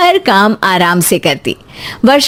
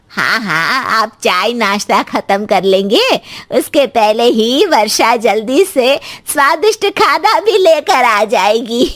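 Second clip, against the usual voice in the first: lightly voiced mother-in-law. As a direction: assure the guests in an elder's measured voice. Mother-in-law promises guests.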